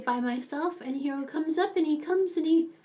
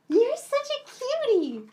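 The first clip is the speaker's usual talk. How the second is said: much higher, slow cooing; 10 semitones higher than usual. Real, not acted. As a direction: coo over the pet. Cooing at the pet.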